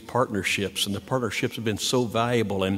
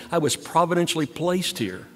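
voicing Doctor Lemley; 6 semitones higher than usual. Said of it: "Doctor Lemley would say".

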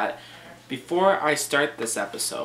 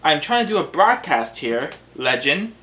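scolding host, emphatic and indignant; mock exasperation; 3 semitones higher, 6 dB louder than usual. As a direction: demand an explanation from your sidekick. Host scolds intruding sidekick.

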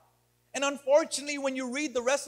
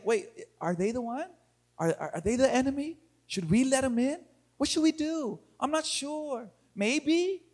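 acted hesitant questioning, trailing upward; indecisive; 3 dB quieter than usual. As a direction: waver softly, unsure of every option. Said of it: "when we become so indecisive".

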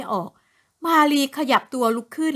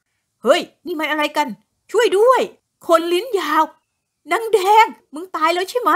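panicked shouting; 5 semitones higher, 3 dB louder than usual. A narrator's reading. Man wakes to ghost.

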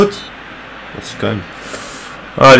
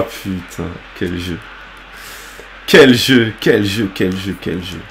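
dépité, à mi-voix; 10 semitones lower, 8 dB quieter than usual. Real, not acted. Marmonne, dépité.

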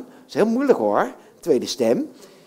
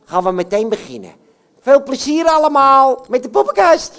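puppet voice; 3 semitones higher, 4 dB louder than usual. Acted. Puppet Jan Klaassen voice.

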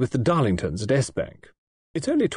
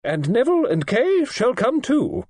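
snapped; 7 semitones higher than usual. A narrator's reading. Old lady snapping orders at Audrey about September. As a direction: shut down all argument, no more discussion. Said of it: "snapped Lady Tressilian".

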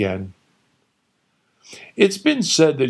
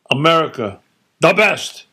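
proud loud declaration, pitched way up; emphatic; 6 semitones higher, 5 dB louder than usual. Retold or imitated. Father proudly proclaiming America the best. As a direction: proclaim it like a flag-waver. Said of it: "he said emphatically".

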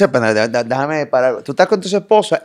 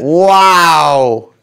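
surprised wow; 7 dB louder than usual. Real, not acted. Host reacts to tense scene.

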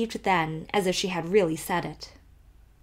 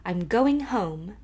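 a light touch of grand, slow recital; mildly theatrical farewell; declaimed feelingly; slower than usual. Acted. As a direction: recite it like a poem at the top of the stairs. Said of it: "she declaimed feelingly".

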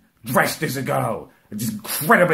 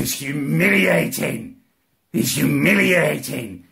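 slow; slower than usual. Retold or imitated. Slow pained protest.

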